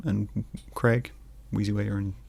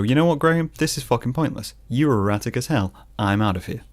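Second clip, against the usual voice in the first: his heart fed up; 2 semitones higher than usual. Pretend. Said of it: "It'll just go".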